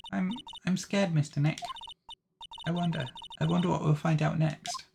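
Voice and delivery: put-on a frightened girl trying to stay brave; scared young girl. Young assistant voiced, scared.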